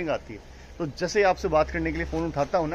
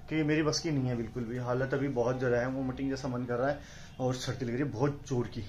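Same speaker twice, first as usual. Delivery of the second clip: feeling sick; 3 semitones lower, 6 dB quieter than usual. Real, not acted. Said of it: "बोला नहीं जा रहा".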